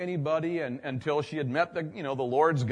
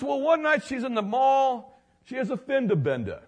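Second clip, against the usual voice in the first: much higher, astonished retold voice; amazed man; 10 semitones higher, 5 dB louder than usual. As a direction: marvel out loud in disbelief. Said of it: "He goes".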